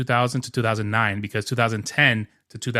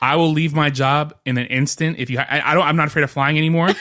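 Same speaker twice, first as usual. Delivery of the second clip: laughing; 2 semitones higher than usual. Real, not acted. Joking pitch to Bob Iger.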